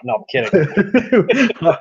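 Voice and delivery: high, slow teasing take-back; joking. Real, not acted. Player teasing the GM, playful take-back. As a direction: laugh it off, just kidding. Joking after execution claim.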